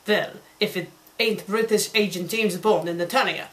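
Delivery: put-on a light Russian accent on a villain raptor; lightly voiced Russian accent, villain gloating. Raptor villain greets the spies in a Russian accent. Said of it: "The raptor said in a Russian accent".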